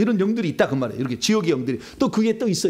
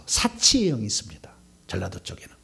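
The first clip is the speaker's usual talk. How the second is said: whisper; 5 semitones lower than usual. Real, not acted. Hushed warning about spirits.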